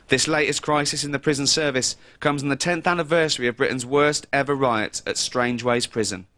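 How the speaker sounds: a lightly formal reporter's read; news report read. Acted. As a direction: deliver it like a TV correspondent.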